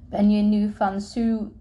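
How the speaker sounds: acted stutter with a stretched hissing onset. A narrator's reading. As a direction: get stuck on the first sound, then push through. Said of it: "stotterde de jongen met de hippe bril".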